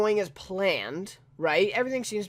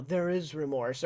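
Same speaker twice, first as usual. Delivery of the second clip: fake tone; 2 semitones lower, 5 dB quieter than usual. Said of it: "in, like, a fake tone".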